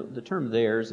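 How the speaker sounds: theirs given weight as the key word; stress on theirs. Shown as a demonstration. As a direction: lean on theirs. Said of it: "is emphatic".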